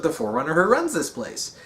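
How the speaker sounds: lightly voiced AI monitor, pitch swooping up; Exuberant Witness. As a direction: explain it in a playful monitor voice. Voices monitor explaining who Composer is.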